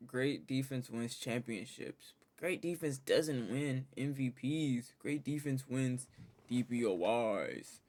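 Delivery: measured, drawn-out emphasis; slow down to drive the point home; slow, deliberate point-making. Real, not acted. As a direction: spell it out slowly, word by word. Driving home a counterargument.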